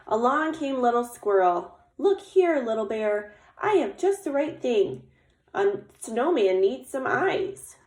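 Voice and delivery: animated read-aloud with lifted character greeting; story narration. A narrator's reading. Little Squirrel offers eyes for the snowman, animated storytelling. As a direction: tell it to children, giving the helper a bright hello. Reads picture book aloud.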